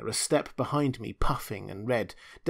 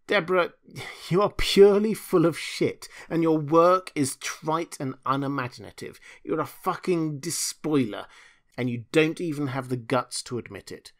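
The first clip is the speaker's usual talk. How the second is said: higher, loud contemptuous outburst; angry insult; 5 semitones higher, 5 dB louder than usual. Acted. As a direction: spit the insults at her. Julius insulting Deborah.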